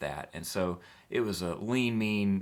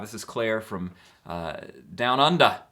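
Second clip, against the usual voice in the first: reading the fan's line as an Aussie, half laughing; mock Australian accent; 2 semitones higher, 6 dB louder than usual. Reading a fan question from Australia, mock Australian accent. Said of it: "trying to cop an accent".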